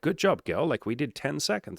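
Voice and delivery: high, cheery congratulation; mock excited praise. To a date after the silence game, cheery high praise. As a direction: cheer her on like a coach.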